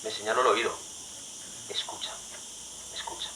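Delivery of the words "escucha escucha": almost whispered "escucha"; hushed. Acted. Preacher voicing an inner call to listen, hushed. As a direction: breathe it like a secret.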